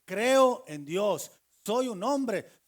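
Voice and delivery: loud, slow, proclaiming each word; bold declaration. Acted. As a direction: declare your faith out loud, slowly. Proud public confession of faith.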